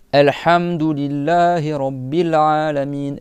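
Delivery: slow loud "Alhamdulillahi Rabbil Alamin"; slow Quranic Arabic; Arabic recitation. Shown as a demonstration. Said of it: "tu contractes ta gorge".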